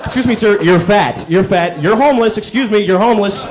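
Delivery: lightly voiced helpful busybody. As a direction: announce the obvious brightly. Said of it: "kind of people".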